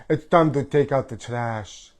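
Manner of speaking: lightly put-on Italian accent; a hint of mock Italian diva; a pop singer. Host dropping her catchphrase, light Italian accent. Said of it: "like a pop singer".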